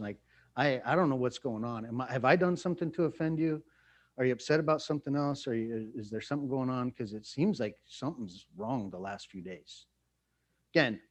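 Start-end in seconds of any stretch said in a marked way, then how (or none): 0.6-9.9 softer, gentle concerned asking; loving communication. Pretend. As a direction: ask your spouse kindly what's wrong. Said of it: "some loving communication".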